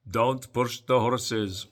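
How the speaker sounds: put-on slow, light Eastern European accent on the quote; a hint of Usyk's Eastern European accent, drawn out; imitating Eastern European accent. Usyk warning Don Charles, in a mild, slow Eastern European accent. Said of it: "an Eastern European accent".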